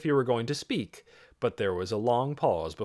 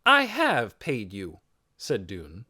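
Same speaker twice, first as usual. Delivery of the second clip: higher, slow, deliberate retort; firm protest; 5 semitones higher than usual. A narrator's reading. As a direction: stand your ground. Boy answers the accuser.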